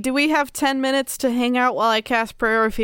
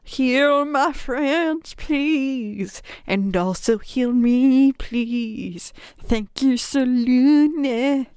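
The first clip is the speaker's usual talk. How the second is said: slow, halting plea; deadpan humble prayer; mock prayer; much slower than usual. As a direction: pray it earnestly and slowly. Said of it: "It goes like this".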